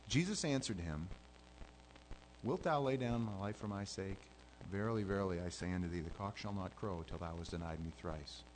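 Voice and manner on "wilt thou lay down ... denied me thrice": gentle. Shown as a demonstration. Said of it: "I, I don't see that".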